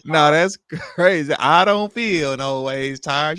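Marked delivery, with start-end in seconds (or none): 1.3-3.4 slow drawn-out mimicry of a plantation owner; mock her slow sung line like a plantation owner; imitating plantation owner. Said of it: "She sound like a plantation owner".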